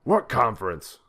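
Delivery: loud, high furious roar. A narrator's reading. President roaring at Putin on phone, furious. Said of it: "the president roared".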